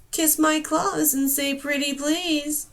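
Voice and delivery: slow mocking taunt. Storm wing taunting the girl before vanishing, slow mockery. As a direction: drawl the mockery at her. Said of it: "he taunted".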